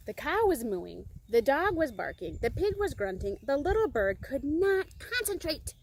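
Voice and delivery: emphatic list building to the last phrase; story reading. A narrator's reading. Reader describing the noisy animals, emphatic building narration. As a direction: punch each animal noise as narrator.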